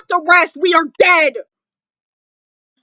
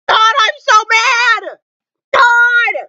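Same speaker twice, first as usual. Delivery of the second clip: slow, higher, half-joking outburst; mock-mad shout; 4 semitones higher, much slower than usual. Real, not acted. Fan scolding the show's makers, playful mad shout. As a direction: drag out the playful fury. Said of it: "the loudest you will ever hear me".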